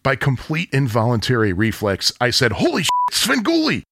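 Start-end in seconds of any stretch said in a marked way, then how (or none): 2.5-3.8 high, startled blurt of recognition; starstruck outburst. Retold or imitated. Fan spotting Svengoolie at a signing, high startled blurt.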